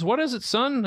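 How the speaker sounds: a hint of a mild old father; imitating his dad. Dad picking up the phone to his son, lightly voiced.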